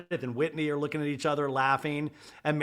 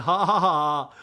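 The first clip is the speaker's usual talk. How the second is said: fake laugh; 8 dB louder than usual. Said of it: "Lisa's going".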